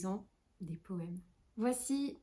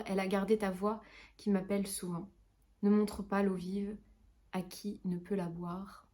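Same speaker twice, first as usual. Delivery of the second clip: understated, sorrowful verse reading; measured lament, dropping off at line ends; poetry recitation. Acted. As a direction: recite a plea to an absent lover. Recites a poem of separation.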